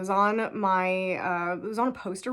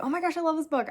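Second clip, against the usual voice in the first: gushing fan; 8 semitones higher, much faster than usual. Retold or imitated. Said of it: "people who were like".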